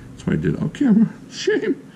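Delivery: high, squeaky self-scolding; mock shame. Reviewer confesses a faked flick to viewers, mock shame. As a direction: tease yourself for cheating on camera. Admits faking the first try.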